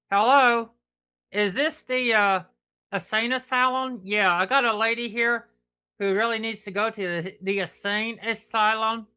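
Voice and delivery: playful fake phone call; pretend phone call. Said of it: "like you were being on the phone".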